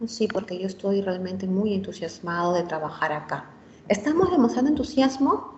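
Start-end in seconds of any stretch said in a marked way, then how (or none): 0.1-3.5 deliberately flat monotone, softer, no energy at all; flat, no enthusiasm. Shown as a demonstration. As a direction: say the eager words as if bored, volume down. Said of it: "no estoy transmitiendo ese entusiasmo". (voz plana y apagada, sin nada de entusiasmo)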